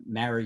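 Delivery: "marry" with the vowel of "mat"; distinct marry vowel. Shown as a demonstration. Giving a regional accent test, short a in "marry". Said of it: "those words are pronounced differently".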